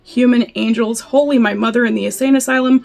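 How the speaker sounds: incantatory reading, leaning on each repeated holy; poem recitation. Acted. Reading Footnote to Howl aloud, emphatic poem recitation. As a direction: chant the litany with rolling emphasis.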